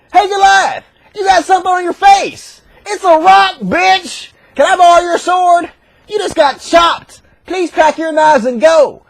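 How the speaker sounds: high-pitched cocky needling; lightly voiced cheeky challenger, slowing at the end; mock taunting. David taunts Goliath after the rock, mock cocky.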